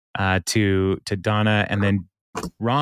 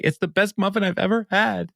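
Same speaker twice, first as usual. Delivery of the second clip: gushing delight; 10 semitones higher than usual. Retold or imitated. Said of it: "is like".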